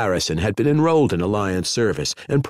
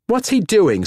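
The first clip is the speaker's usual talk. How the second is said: sudden, much higher and louder; startled question; 12 semitones higher, 4 dB louder than usual. A narrator's reading. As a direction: blurt it out in alarm. Tibbs startled by the knife.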